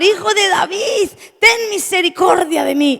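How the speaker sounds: high, urgent cry for mercy; clamoring plea. Retold or imitated. Preacher voices Bartimeo clamoring to Jesus, urgent cry. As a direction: call out with the pitch held high throughout. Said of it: "él empieza a clamar".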